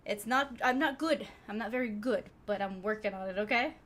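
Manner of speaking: breathless after rushing; winded, catching breath between words. Real, not acted. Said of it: "Sorry, I'm a little out of breath".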